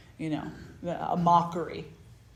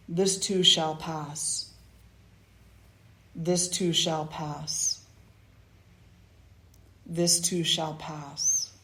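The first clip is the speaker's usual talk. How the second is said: slow, solemn mantra; slower than usual. Acted. Reading the ring's words.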